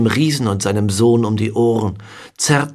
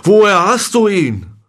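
urgent question; 9 semitones higher, 4 dB louder than usual. A narrator's reading. Stunned giant demands the mirror's origin.

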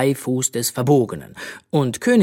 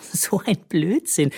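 put-on higher amused child; giggling; 6 semitones higher than usual. A narrator's reading. Bö laughing at the hat's nonsense, giggling. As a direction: giggle through it. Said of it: "kicherte Bö".

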